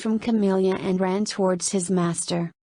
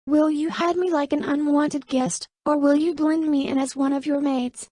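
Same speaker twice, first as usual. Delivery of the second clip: higher, cold mocking woman's voice; 7 semitones higher than usual. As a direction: return his coldness, pointedly. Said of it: "She coldly returned".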